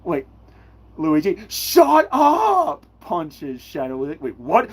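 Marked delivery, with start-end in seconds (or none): 1.0-2.9 angry shout. Acted. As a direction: shout it slowly, high and loud. Yelling at Luigi in play.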